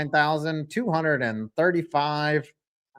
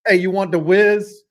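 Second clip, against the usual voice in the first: loud Philly counterman impression; punchy put-on Philly accent; 2 semitones higher, 6 dB louder than usual. Shown as a demonstration. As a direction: ask it in a mock Philly accent. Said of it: "It sounds like".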